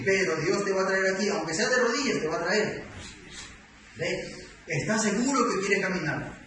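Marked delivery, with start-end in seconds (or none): 0.1-2.8 voiced pastor insisting, somewhat raised; stern warning. Pastor tells convert God will bring him anyway, stern warning. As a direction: press the warning on the convert forcefully.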